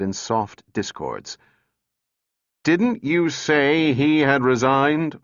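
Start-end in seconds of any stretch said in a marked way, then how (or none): 2.6-5.2 roaring. A narrator's reading. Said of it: "roared Bogart".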